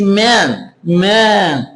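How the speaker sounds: MAN with a long drawn-out E sound; stretched vowel. Shown as a demonstration. Teacher showing why it has two Es, vowel stretched. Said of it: "é espichado".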